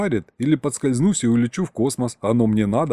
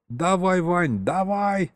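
hollering; 7 semitones higher, much slower than usual. Acted. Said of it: "завопил он".

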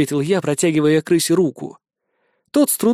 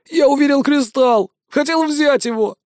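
high, pleading, on the verge of crying; near tears; 9 semitones higher than usual. A narrator's reading. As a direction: defend yourself almost in tears. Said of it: "едва не плача ответил тот".

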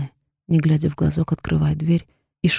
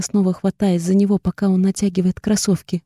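ordinary delivery, nothing marked

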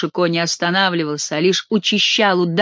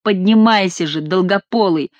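shouted order. Acted. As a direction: bark the monk up off the ground. Chicot shouting at monk.

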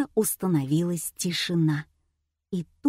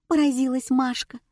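ordinary delivery

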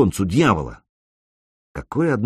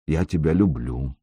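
tender confession; 5 semitones lower, 4 dB quieter than usual. A narrator's reading. Sanek says it tenderly.

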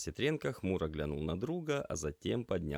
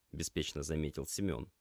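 ordinary delivery, nothing marked

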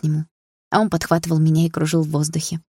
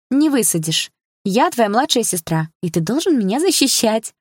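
laughing; 5 semitones higher than usual. Acted. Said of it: "рассмеялась Саша".

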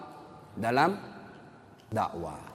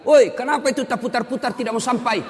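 high, loud mock yell; imitated heckling shout; 11 semitones higher, 7 dB louder than usual. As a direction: act out a student yelling at the imam. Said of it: "dia teriak".

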